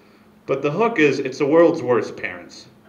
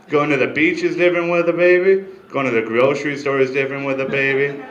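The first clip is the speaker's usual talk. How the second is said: building to closer; 3 dB louder than usual. Real, not acted. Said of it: "building list to finale".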